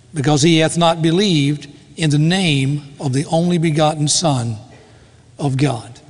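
measured, solemn reading of the Bible passage; scripture reading. Acted. Pastor reading John's Gospel to the congregation, solemn reading. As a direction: read the verses with reverent weight. Reads John 3:16-18 aloud.

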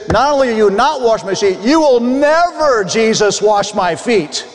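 forceful protest, never pitched high; aggressive tone. Retold or imitated. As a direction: push back hard on never. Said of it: "if we could say it in this aggressive tone".

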